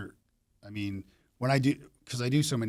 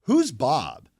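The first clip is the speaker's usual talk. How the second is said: louder, higher call across the room; yelled over; 5 semitones higher, 9 dB louder than usual. Retold or imitated. Puzzled colleague yelling over the monitors, calling out. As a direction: call it out to a coworker. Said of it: "then somebody yelled over".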